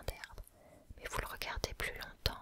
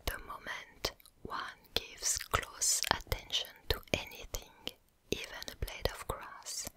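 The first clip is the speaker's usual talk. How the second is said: whispered English with a French accent; hushed French-accented English reading. Real, not acted. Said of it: "désolé pour mon accent anglais".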